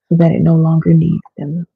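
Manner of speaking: words stretched by a yawn. Real, not acted. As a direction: say it mid-yawn. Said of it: "excuse me for yawning".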